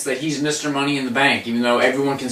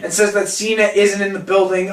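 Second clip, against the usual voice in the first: ordinary talk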